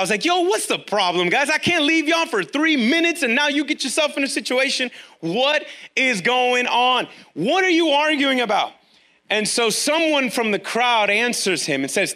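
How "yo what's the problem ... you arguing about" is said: exasperated scolding. Acted. Jesus scolds disciples, modern paraphrase.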